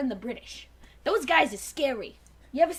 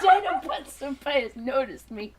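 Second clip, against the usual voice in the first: giggly fangirl; 3 semitones lower than usual. Pretend. Fangirl swoon.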